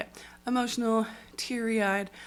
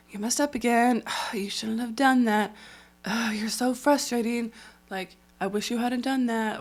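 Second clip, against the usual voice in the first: disappointed dad; 4 dB louder than usual. Retold or imitated. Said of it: "Who's just like".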